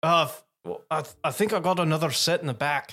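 put-on Scottish accent. Voicing a game character whose accent keeps changing, in a Scottish accent. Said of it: "I got to get my Scottish back on".

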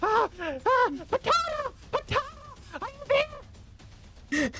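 winded, out-of-breath goblin voice. A goblin hurrying through a village calls out, out-of-breath goblin voice. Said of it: "I'm so out of breath!".

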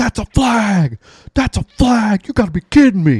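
acted, very high, loud screaming. Retelling how a man yelled at the ref over a rush call, retelling a scream at the ref.

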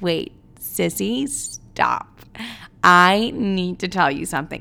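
silly, goofy tone, very slow and drawn out. Retelling how you spoke to your sister on the Zoom, imitating own silly goofy tone. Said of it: "This is exactly how I'm talking".

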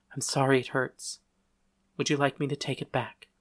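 ordinary delivery

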